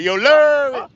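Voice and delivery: "Larry" slurred into one long, high, loud syllable; drawn-out LARRY. Shown as a demonstration. Streamer showing how to say a viewer's name, drawn-out high holler. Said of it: "You gotta say it like that".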